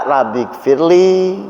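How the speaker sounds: slow, heartfelt pleading to God; slow, humble supplication; earnest prayer. Shown as a demonstration. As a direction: pray it slowly as a real plea. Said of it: "Tapi rasanya kita sedang berdoa".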